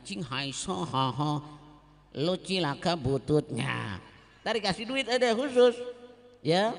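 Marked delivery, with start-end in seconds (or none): 0.0-4.0 slow, lightly voiced mock wailing; imitated hired mourners. Preacher mocking the paid mourners at a funeral, slow and lightly voiced. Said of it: "orang-orang Cina kan ada yang nangis".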